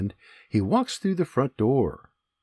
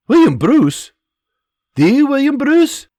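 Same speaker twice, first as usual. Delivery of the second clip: loud, high astonished soldier; surprised; 12 semitones higher, 8 dB louder than usual. Acted. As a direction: gasp at the famous name. Soldier recognizes famous name.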